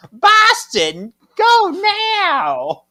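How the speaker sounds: loud, high urgent order; yelling. A narrator's reading. Narrator reads Prue's vision command, high loud yell. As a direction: belt it out, high and drawn out. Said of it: "She yells".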